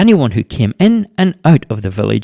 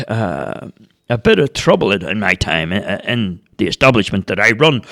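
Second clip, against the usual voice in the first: local publican. A narrator's reading. Publican McGuire speaks at meeting.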